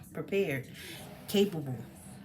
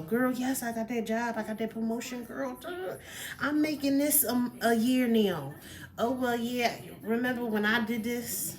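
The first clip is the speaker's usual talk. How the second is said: higher, bragging friend voice; one-upping friend; 3 semitones higher than usual. Retold or imitated. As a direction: imitate a friend topping your news. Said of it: "they'll always try to one-up you".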